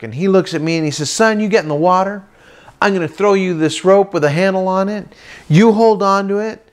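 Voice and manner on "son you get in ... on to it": lightly voiced dad, higher and emphatic; a hint of an eager father; dad instructing. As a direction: lay out the steps to your son. Voicing dad giving ski instructions.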